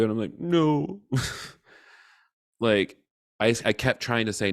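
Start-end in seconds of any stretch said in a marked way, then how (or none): 0.4-3.0 high, drawn-out mock whimper; retold tearful no. Answering boyfriend while crying, high plaintive no. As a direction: admit it in a high, plaintive little wail.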